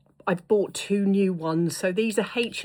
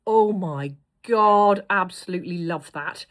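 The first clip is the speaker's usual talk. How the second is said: gushing; 4 dB louder than usual. Real, not acted. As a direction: swoon over the lipstick colour. Gushing over a lipstick.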